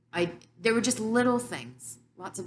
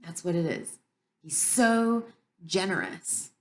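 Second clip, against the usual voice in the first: slow, louder, choked-up emotion; fighting back happy tears while speaking; tearing up; 3 semitones higher, 5 dB louder than usual. Real, not acted. Tearing up while telling her about God's love. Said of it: "and I'm tearing up now".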